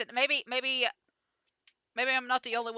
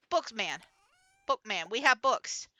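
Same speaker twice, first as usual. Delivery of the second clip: slow, lightly put-on simple-minded merchant talk; a hint of goofy caveman speech; silly broken-English voice. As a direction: play it a bit dumb and slow, just for fun. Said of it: "I don't know why I'm talking like this".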